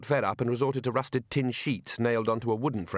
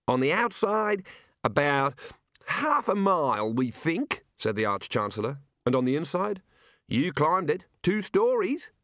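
put-on high, slow, booming old wizard; hearty old wizard; 5 semitones higher, slower than usual. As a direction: savour the bracing air grandly. Arch-Chancellor explaining.

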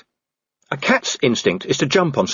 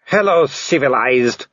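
slow werewolf villain growl; growled greeting; 3 semitones higher than usual. A narrator's reading. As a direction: growl it slowly as a menacing werewolf. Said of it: "he growled".

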